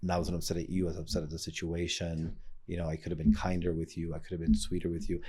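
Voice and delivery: put-on tender apology to a child; gentle repair. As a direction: say sorry tenderly, unhurried. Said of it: "to say".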